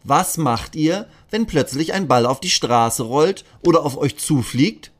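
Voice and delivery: a friendly officer quizzing the class; policeman asking. Acted. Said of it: "Er fragt sie".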